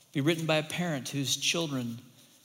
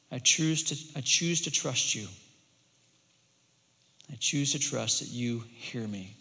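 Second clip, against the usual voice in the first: trusting prayer; 2 semitones lower than usual. Acted. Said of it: "what a lament could sound like".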